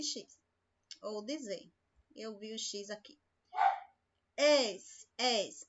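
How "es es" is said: "Es" said slowly as a drawn-out hissing S, twice; isolated sound. Shown as a demonstration. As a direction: stretch the "Es" into a clear S sound. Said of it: "Podia ser um S aqui". (destacar o som "Es" como um S sibilante)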